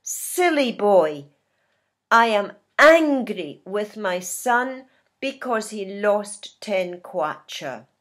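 mildly acted anger for learners; a touch of anger, leaning on the key word; angry. Teacher playing a parent cross with a son, mildly angry. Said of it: "This is how we feel when we're angry".

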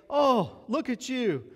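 high, sneering mock disbelief; mocking scoffer. Scoffers mocking a believer, sneering and incredulous. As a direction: ridicule the believer to his face. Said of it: "they say".

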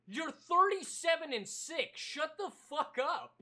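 amused fake outrage; mock exasperation. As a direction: tell your teammate off in jest. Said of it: "and I'm like".

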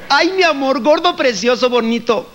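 high cooing pet names; sweet-talking wife. Retold or imitated. Wife sweet-talking her husband on their anniversary, high and cooing. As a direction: coo at him to butter him up. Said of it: "rechinar es porque algo quieren".

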